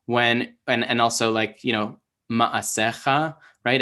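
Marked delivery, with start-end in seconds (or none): 2.3-3.3 ma'asecha slowly, stress on the "SE", not the last syllable; stress demo. Shown as a demonstration. Teacher giving an example of proper syllable stress, stressed demo. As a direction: lean on SE in ma'asecha, drawn out. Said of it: "put the stress on".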